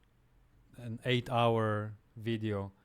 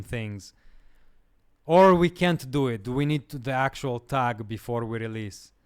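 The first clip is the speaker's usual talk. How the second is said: strained voice; 5 dB louder than usual. Real, not acted. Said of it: "I'm straining my voice right now".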